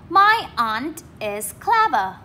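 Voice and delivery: slow, stressing CLEVER on its first syllable; slow model reading. Shown as a demonstration. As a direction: read it slowly and lean on CLEVER. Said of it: "Trọng âm một này".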